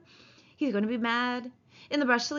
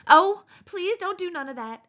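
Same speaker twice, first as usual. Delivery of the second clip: high, loud, frightened wail; begging; 10 semitones higher, 7 dB louder than usual. A narrator's reading. Man in panic over her screaming, begging. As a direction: plead as if about to cry. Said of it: "he begged".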